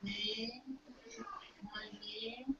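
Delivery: very soft, low voice with rising questions; hesitant questioning. Retold or imitated. Girl unsure when asked her name, hesitant questioning. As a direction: murmur it uncertainly, lifting each ending.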